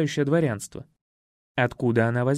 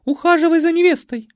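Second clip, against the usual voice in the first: high loud order; bossy mother; 13 semitones higher, 8 dB louder, faster than usual. A narrator's reading. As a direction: push him to the bride.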